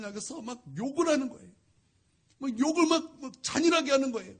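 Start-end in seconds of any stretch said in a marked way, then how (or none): none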